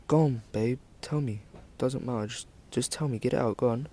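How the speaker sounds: retold tender encouragement; gentle coaxing. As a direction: gently urge someone to open up. Retells girlfriend coaxing a confession.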